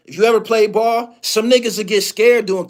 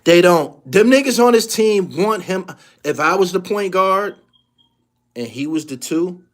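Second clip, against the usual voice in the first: normal talking voice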